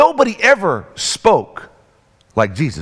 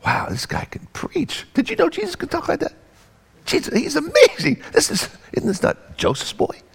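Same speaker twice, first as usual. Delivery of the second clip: amazed crowd; 9 semitones higher, 5 dB quieter than usual. Acted. Crowd voiced amazed at Jesus.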